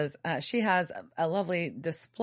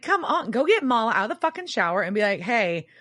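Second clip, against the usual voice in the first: louder, higher, fast exasperated rant; mock-furious; exasperated outburst; 6 semitones higher, 5 dB louder than usual. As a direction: yell it at the character in disbelief.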